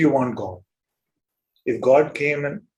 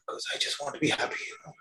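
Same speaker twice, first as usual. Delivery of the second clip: soft seeker voice; 12 dB quieter, much faster than usual. Retold or imitated.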